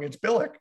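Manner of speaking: BILIC ending in a hard K, like BILL-ick; wrong pronunciation. Retold or imitated. League message wrongly correcting the announcer, hard-K mispronunciation. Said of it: "you got that guy's name wrong".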